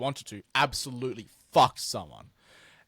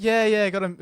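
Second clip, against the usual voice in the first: a hint of British accent, higher; almost British, caught halfway; slip into British accent; 8 semitones higher, 4 dB louder than usual. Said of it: "I almost said it in a British accent".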